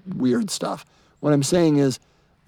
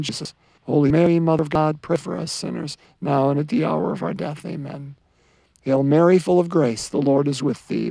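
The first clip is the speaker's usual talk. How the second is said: rosary prayer. Real, not acted. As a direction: lead the rosary in a practiced, even cadence.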